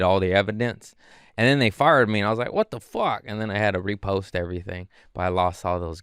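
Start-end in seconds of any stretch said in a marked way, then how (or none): 2.5-3.2 high-pitched, retold outrage; acted-out shocked complaint; mock indignant disbelief. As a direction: pitch it up in baffled protest. Acts out reaction to being fired.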